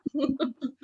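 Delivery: high laugh. Real, not acted. Teacher laughs at his own fumbling demo, high and amused. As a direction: burst into a laugh.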